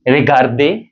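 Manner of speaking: regarder ending in a clear "ay"; final A sound. Shown as a demonstration. Teacher showing learners the accent aigu, clear final A in regarder. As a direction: say regarder joined up, last syllable "day". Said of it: "this accent is pronounced as A".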